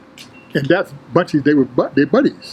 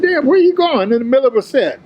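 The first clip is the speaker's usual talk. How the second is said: mock surprised call-out; 8 semitones higher than usual. Rival leaving mid-set, teasingly called out. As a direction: tease him for walking out mid-set.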